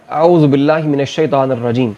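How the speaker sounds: slow, measured Arabic recitation with long-held vowels; Quran recitation. Acted. Teacher recites a verse before translating it, measured recitation. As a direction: recite the verse slowly, drawing out the long syllables.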